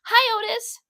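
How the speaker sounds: high, bright greeting; cheerful. Acted. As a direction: sing out the hello.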